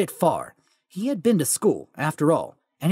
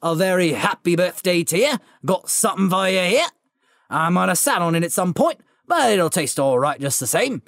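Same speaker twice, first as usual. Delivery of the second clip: Hagrid voice. Acted. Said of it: "said the giant".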